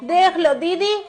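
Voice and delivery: a hint of a dismissive hostess; mimicking sister-in-law. Aunt retells the sister-in-law's brush-off, mildly mocking. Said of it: "तो यूँ कह रही".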